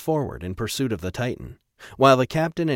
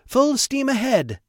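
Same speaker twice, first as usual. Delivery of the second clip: very high, loud, drawn-out command; shouted order; 5 dB louder, slower than usual. A narrator's reading. Trevor orders the crew onward, shouting. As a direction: bellow it high across the bridge. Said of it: "Trevor shouted".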